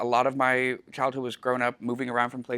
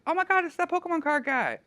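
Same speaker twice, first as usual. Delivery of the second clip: put-on high-pitched starstruck kid voice; excited kid; 3 dB louder than usual. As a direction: squeal like a kid spotting a celebrity. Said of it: "those kids go like".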